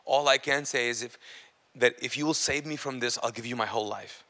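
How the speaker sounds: low, honest confession to God; retold heartfelt prayer. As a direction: pray it softly, phrase by phrase. Retells his first prayer to Jesus.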